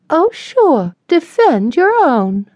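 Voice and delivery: mock the loyal friends; sarcastic jab. A narrator's reading. Sarah voiced, sarcastic.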